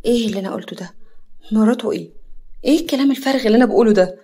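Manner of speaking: baffled at her own words, fast at the end; puzzled. Acted. Yara puzzled at what she blurted out. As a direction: scold yourself in disbelief. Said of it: "يارا باستغراب".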